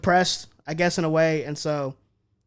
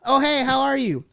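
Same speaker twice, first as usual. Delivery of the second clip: higher, breezy small-talk hello; casual friendly greeting; 7 semitones higher than usual. Acted. People asking without caring, high and breezy. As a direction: toss out a polite, high-pitched greeting. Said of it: "So when people say".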